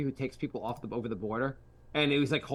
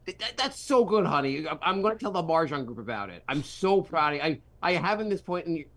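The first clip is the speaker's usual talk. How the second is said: mom's voice; 3 semitones higher than usual. Retold or imitated. Mother praising her son about his trophy, in a lightly put-on doting voice. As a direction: gush over her son's trophy with a proud mother's put-on accent. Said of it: "I was trying to place that accent".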